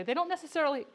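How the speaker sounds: speaking with hiccups. Real, not acted. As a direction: talk through the hiccups. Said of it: "excuse me, I have the hiccups".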